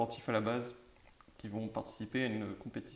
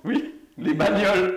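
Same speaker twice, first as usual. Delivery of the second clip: louder, slower les bagnoles; slow emphatic repeat; 8 semitones higher, 13 dB louder, slower than usual. Shown as a demonstration. Host repeating the title for listeners who missed it. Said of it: "Ils ont pas entendu aussi".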